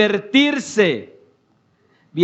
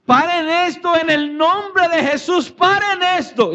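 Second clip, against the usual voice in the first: high-pitched retold shout, urgent plea; impassioned cry; 9 semitones higher than usual. Preacher acting out a man shouting from the arena, impassioned high cry. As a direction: cry out to halt it, pitched well up. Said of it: "en alta voz empezó a gritar eufóricamente".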